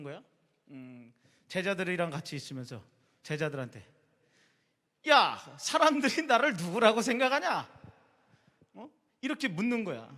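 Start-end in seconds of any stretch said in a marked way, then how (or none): 5.1-7.7 breezy, higher and louder question; casual Jesus voice. Retold or imitated. Jesus asking his disciples offhandedly, light and casual. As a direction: toss the question out casually like a friend.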